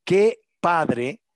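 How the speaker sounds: high, loud delighted exclaim; excited. Retold or imitated. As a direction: burst out in delight. Quoting own excited reaction.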